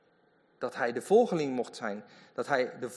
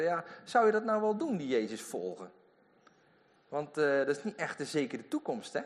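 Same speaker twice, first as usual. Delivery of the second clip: doubting friend. Retold or imitated. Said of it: "mensen ... die tegen hem zeggen".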